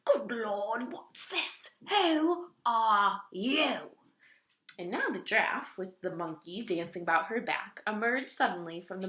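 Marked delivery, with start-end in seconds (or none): 0.1-3.9 whispered, very slow astonished questions; stunned whisper. A narrator's reading. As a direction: barely breathe it out in shock. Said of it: "he gasped".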